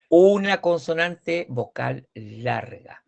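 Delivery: slow, deliberate teacher's statement; slow emphatic rule. Shown as a demonstration. Teacher explaining the vowel rule to students, slow and emphatic. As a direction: spell the rule out slowly, word by word. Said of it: "donde yo les explico esto".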